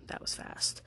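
soft unvoiced whisper; whispered aside. Real, not acted. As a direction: murmur it under your breath. Repeats aside under breath.

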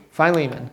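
Philemon said fye-LEE-mun; correct pronunciation. Shown as a demonstration. Teacher correcting a student's pronunciation, Philemon as fye-LEE-mun. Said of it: "it's pronounced Philemon".

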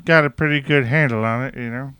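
nasal pinched-nose voice; pinching nose. Retold or imitated. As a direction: talk while holding your nose. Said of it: "hold your nose like this".

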